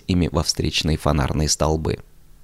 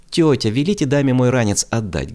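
raised, hot-tempered appeal; heated; 6 semitones higher, 4 dB louder than usual. A narrator's reading. Kirya heatedly appealing to his aunt, raised. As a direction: demand it, all worked up. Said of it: "горячился Киря".

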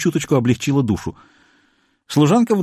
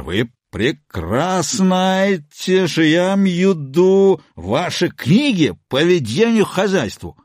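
slow scolding; 6 semitones higher, slower than usual. A narrator's reading. Husband scolds wife.

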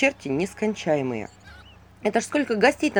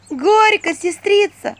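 put-on high, loud young girl's cry; girl calling out; 12 semitones higher, 7 dB louder, much slower than usual. A narrator's reading. Girl at the wedding calls to her sister, high and loud. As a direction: call out high and bright as a girl.

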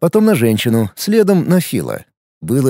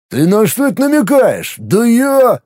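bristling retort; 8 semitones higher than usual. Acted. Phil bristles at the jab.

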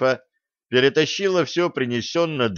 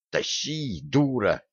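sharp hushed hiss, much softer; 6 dB quieter, slower than usual. A narrator's reading. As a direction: hiss it at her under your breath. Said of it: "шикнула на неё Стесси".

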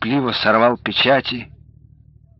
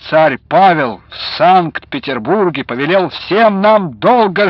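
bright, joyful news; cheerful; 3 semitones higher, 4 dB louder than usual. A narrator's reading. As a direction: share the good news gladly. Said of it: "весёлым голосом закончил".

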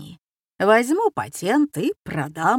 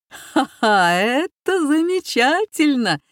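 с восторгом, высоко и громко; смеясь от восторга над каламбуром; ликующе; 8 semitones higher, 5 dB louder, slower than usual. Acted. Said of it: "ликовал Жилец". (жилец ликует от каламбура, громко и высоко)

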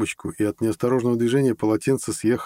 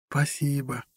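tag; 6 semitones higher, 4 dB quieter, slower than usual. A narrator's reading. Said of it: "улыбнулась Анна".

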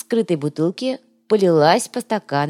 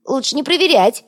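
high squeaky little voice, pitched up; squeak; 8 semitones higher, 4 dB louder than usual. A narrator's reading. Yoga nervously squeaks at the gang. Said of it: "пискнул Йога".

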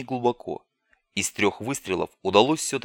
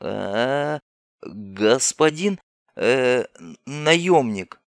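nervous scientist; 3 semitones higher than usual. Acted. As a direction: beg the mercenary to let you go. Scientist pleads in flooding bunker. (испуганный умоляющий учёный)

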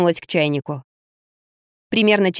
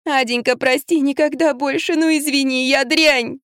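high, keening plea for forgiveness; high lament to the dog; 6 semitones higher than usual. Acted. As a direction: wail over the dog, begging. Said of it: "запричитала".

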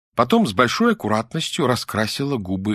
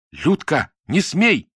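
high, louder warning yell; shouting; 8 semitones higher, 4 dB louder, slower than usual. A narrator's reading. Dasha yells at Lyuda to stop, alarmed shout. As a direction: cry out to stop her. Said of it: "закричала Даша".

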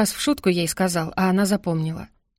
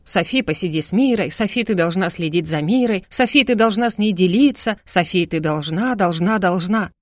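mocking mother. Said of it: "передразнивала она мать".

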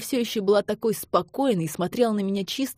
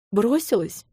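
sharp, higher cry of disbelief; wounded outcry; 5 semitones higher than usual. A narrator's reading. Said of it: "вскрикнула она".

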